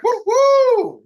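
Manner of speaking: a sudden high, loud whoop; excited whoop. Real, not acted. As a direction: whoop to fire up the crowd. Hype host firing up the call.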